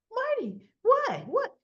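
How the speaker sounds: very high, loud, squealed questions; hammed-up high-pitched dismay; shocked protest. Lucy questions Marty as he leaves, shocked squeal.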